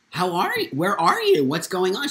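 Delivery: confused mom. Retold or imitated. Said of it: "She was, like, confused".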